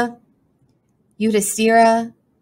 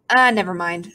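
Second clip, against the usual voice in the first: resigned sigh. Acted. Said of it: "with a resigned sigh".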